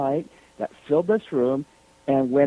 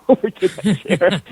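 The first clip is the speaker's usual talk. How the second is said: amused, laughter bubbling through the words; laughing; 4 semitones higher, 8 dB louder than usual. Real, not acted. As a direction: break into a laugh mid-sentence. Laughing at own eagerness.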